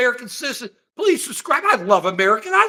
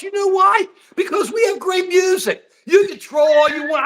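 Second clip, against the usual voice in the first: raised defiant voice; 7 semitones higher than usual. Real, not acted. Defiant boast at trolls.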